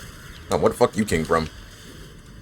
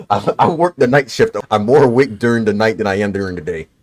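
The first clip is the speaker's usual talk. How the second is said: talking through hiccups. Real, not acted. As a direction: speak with the hiccups. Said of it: "I still have the fucking hiccups".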